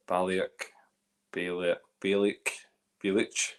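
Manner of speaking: tentatively trying "Baliak", then "Balic"; unsure pronunciation attempts. Real, not acted. Host testing a distillery name, unsure pronunciation. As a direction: sound out "Baliak" several ways, low and hesitant. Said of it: "pulled up again about how I say the name".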